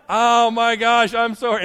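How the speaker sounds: high, loud wail of a kid, hammed up; imitated crying. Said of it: "and starts crying again".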